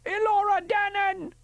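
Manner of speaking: high full shout of the name. Acted. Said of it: "and then, louder still".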